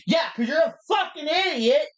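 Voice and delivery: loud, high mock insult; imitating a shouted insult; mock yell. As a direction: yell it out in jest. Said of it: "Like, loud".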